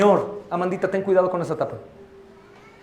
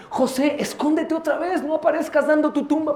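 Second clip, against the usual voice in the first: mocking advice; 8 semitones higher, 3 dB quieter than usual. Pastor mocks church advising Joseph.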